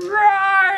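drawn-out mock lion roar; proud roar. A narrator's reading. Lion roars in new crown, proud. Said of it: "Lion roared loud and proud".

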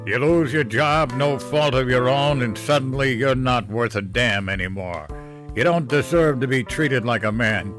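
put-on loud, bitter drunken rant. Drunk father ranting to his son about losing his job, angry. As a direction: vent it, aggrieved and loud.

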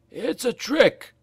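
high, slow, wary voice; a broken slave suspecting a trap; frightened slave. A narrator's reading. Slave warning the others, high and fearful. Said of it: "said another".

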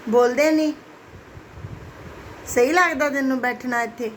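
coaxing pet talk. Real, not acted. Owner coaxing her dog Max to go outside, sing-song pet talk. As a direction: sweet-talk the dog into a walk.

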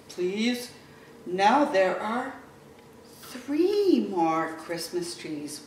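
lively storybook reading; reading to children. Acted. Teacher reading Little Blue Truck to kids, animated storytelling. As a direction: read it to little ones, animated. Reads picture book to children.

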